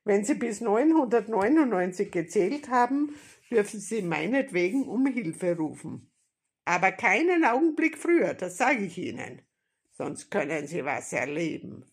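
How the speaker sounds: loud, emphatic bandit warning; threatening robber. A narrator's reading. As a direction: warn her forcefully.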